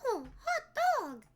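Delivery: high drawn-out cartoon goof voice; Goofy impression. Goofy whoop for the chat, playing Goofy. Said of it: "I am Goofy".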